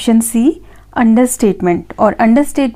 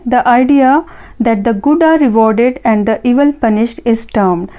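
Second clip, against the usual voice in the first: each word read out slowly and evenly; slow dictation; much slower than usual. Acted. Teacher reading an answer option to students, slow dictation. Reads question stem slowly.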